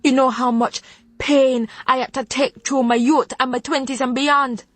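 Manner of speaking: rising, high-pitched scolding in a Jamaican lilt; furious Jamaican grandmother. Acted. Grandmother berating granddaughter over therapy, furious Jamaican scolding.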